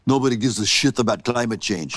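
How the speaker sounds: a fumbled, half-hearted Austrian action-star voice; Arnold Schwarzenegger impression. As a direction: try for the Terminator and only half land it. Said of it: "that was such a good impression".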